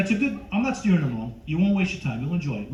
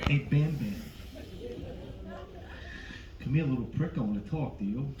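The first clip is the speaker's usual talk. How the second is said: lightly voiced menacing father; a hint of a tough-guy interrogator, with pauses; Robert De Niro. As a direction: question him like a suspect, lightly in character. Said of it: "De Niro as Fred".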